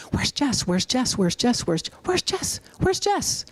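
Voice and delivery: rising, puzzled asking; curious courtroom murmurs. Retold or imitated. Speaker imitating the curious courtroom, rising and puzzled. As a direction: mimic a room wondering where she is. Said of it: "what I wanted in the courtroom was".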